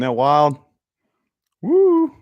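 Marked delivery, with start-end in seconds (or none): 1.6-2.1 high, loud whoop of delight; excited woo. Real, not acted. Excited cheer at changing light colors.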